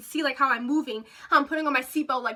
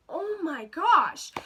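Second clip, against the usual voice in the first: drawn-out exasperation, very slow; exasperated; 2 semitones higher, much slower than usual. Retold or imitated. Teller hearing the sister is asleep, slow exasperation. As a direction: stretch it out in mock disbelief.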